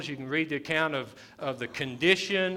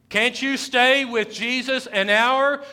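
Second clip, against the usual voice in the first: pleading call; 7 semitones higher, 8 dB louder than usual. Acted. Preacher repeats the plea loudly.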